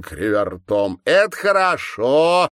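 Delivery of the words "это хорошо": put-on high, loud, gloating girlish cry; evil girl. A narrator's reading. Girl with the syringe gloating, high and loud. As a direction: gloat over him like a cruel child. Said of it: "произнесли девочки".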